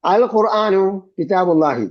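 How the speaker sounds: slow, careful reading with a strong, clear "അൽ" at the start; slow model reading. Shown as a demonstration. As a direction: read "അൽ ഖുർആനു കിതാബുല്ലാഹി" slowly and give "അൽ" weight. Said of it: "teacher reads example sentence". (പതുക്കെ, "അൽ" ഊന്നി വായിക്കുക)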